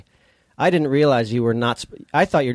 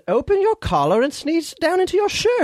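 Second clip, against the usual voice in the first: mock British woman correcting a sneeze; imitating British woman. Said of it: "she said, she said".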